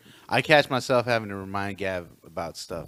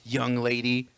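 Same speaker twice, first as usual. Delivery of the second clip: put-on stern old matriarch; 2 semitones higher, slower than usual. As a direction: chide a daughter over and over. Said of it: "that's my thing".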